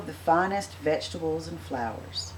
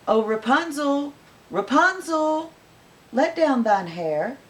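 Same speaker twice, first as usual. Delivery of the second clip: high calling up a tower; witch calling out; 9 semitones higher, 5 dB louder than usual. Acted. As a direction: call it loud and high, slowing. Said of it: "she called out".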